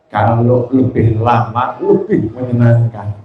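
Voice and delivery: a hint of a pleased husband; grateful husband. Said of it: "yang satu kalimatnya syukur".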